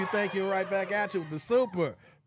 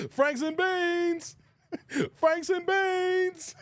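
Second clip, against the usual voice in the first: high, slow, drawn-out, breaking into laughter; laughing quote; 7 semitones higher, much slower than usual. Retold or imitated. Streamer cracking up quoting the movie line, high laughing squeal. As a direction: squeal it through the giggles.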